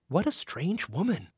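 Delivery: soft, hushed aside; a hushed remark about a strange neighbour; whispered. Acted. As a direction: keep it under your breath. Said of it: "Robin whispered".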